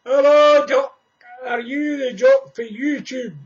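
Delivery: loud call from a passing car; shouted greeting. Retold or imitated. Stranger shouting from his car window. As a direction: shout it across the street. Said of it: "The guy shouted out the motor".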